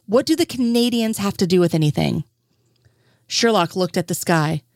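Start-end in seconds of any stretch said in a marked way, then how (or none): 0.1-2.2 near shout. Acted. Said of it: "Lestrade nearly shouted".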